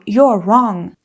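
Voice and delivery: flat blunt verdict; blunt rude. Shown as a demonstration. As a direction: state it bluntly. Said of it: "It sounds rude".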